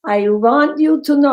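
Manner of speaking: fond Jewish aunt voice, lightly done; attempted Jewish accent. Jewish accent of the aunt calling Rita, lightly tried. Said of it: "I can't do a Jewish accent to save my life".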